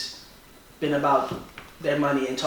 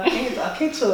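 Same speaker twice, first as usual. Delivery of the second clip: put-on half-hearted Chinese accent; 9 semitones higher than usual. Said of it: "I don't wanna do the accent".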